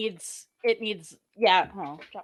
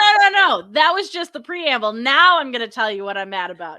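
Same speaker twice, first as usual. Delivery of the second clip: hammed-up furious rebel; mock rant; 2 semitones higher, 9 dB louder than usual. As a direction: pile on the grievances. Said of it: "kind of like you said".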